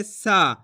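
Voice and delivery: सा with a long stretched "aa"; lengthened सा, as a reading demonstration; drawn-out vowel. Shown as a demonstration. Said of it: "खींच के पढ़ देंगे".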